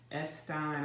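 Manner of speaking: "Epstein" with stein rhyming with fine; German pronunciation. Shown as a demonstration. Reader choosing the German way to say the name, German pronunciation. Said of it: "I'm gonna say Stein".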